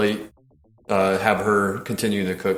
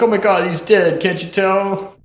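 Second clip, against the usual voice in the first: mock hysterical girlfriend; 9 semitones higher than usual. Voicing girlfriend in retold scene.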